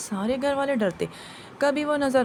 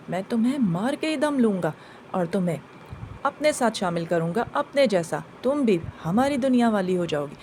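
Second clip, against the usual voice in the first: low, menacing demon voice threatening death; lower jinn voice; 4 semitones lower than usual. Retold or imitated. Jinn threatening the woman on the roof, low and menacing. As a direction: growl it low like an evil jinn.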